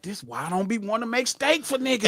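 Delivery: mock aside, half to himself; imitated muttering. Imitating cook grumbling about customers, muttered under the breath. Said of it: "he was under his breath".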